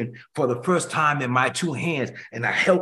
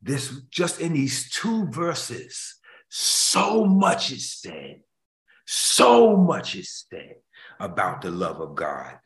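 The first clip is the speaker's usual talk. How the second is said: preaching emphasis; much slower than usual. Acted. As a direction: stretch each word to stress the point.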